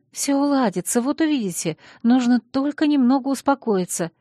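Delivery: high squeaky little voice; squeaking. Acted. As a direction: squeak it out nervously. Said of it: "пропищала я".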